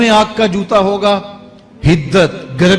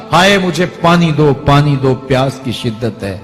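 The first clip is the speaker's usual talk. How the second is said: raised, pleading cry for water, sinking at the end; preacher acting out a mild desperate shout. Damned man begging for water in hell, crying out. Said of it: "پھر چیخے گا، چلائے گا".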